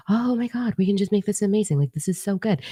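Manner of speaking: high-pitched eager gush; mock excitement. Imitating eager dolphin-like beings, high mock excitement. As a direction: gush like an overkeen puppy. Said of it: "They're so excited to just".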